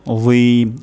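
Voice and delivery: "যীম" long, as "dheem", tongue tip at teeth; touch tongue to front teeth for "যীম"; correct articulation. Shown as a demonstration. Teacher showing the letter za, "যীম" with a drawn-out dental dh. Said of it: "য উচ্চারণ হবে".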